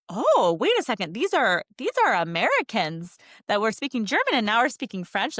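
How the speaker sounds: imitating a pleasantly astonished lady; lively, swooping mock amazement; delighted surprise. Traveler imitates airline lady delighted by multilingual Americans, pleasantly amazed. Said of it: "she was delighted".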